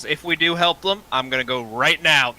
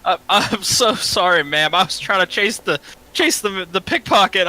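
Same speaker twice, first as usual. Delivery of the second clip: stammering, higher-pitched excuse; flustered apology; 5 semitones higher than usual. Acted. Runner to the woman just knocked down, flustered apology. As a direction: apologise hastily, tripping over the words.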